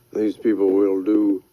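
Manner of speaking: slow, falling to a whisper; grim whisper. Acted. War Baby warns Rydell about the girl, slow whisper. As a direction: let it sink into a hush.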